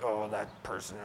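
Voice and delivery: a soft, low mutter of Oh, that person; grumbling under breath. Retold or imitated. Preacher acting a grumbler muttering about someone, softly under the breath. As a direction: mutter it to yourself, half-hoping to be overheard. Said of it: "grumble under your breath".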